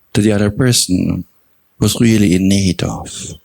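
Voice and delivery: measured meditation guidance with long pauses between phrases; guided meditation. Real, not acted. Teacher guiding meditators to recall their own generosity, unhurried meditation delivery. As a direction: guide them gently through the reflection, phrase by phrase.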